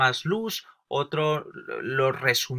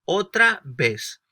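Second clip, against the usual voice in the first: God dictating; 2 semitones higher, 5 dB louder, slower than usual. Acted. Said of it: "Dios no dijo".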